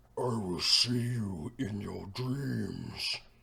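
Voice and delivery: very deep, echoing, ground-shaking giant voice. Voicing a giant speaking to the group in a game, very low giant voice. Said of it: "It says in giant in a very low voice".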